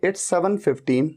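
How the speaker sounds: very slow, careful model line; drawn out for learners to follow; slow demo. Shown as a demonstration. Teacher shows how to say the time slowly. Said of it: "आप कहेंगे".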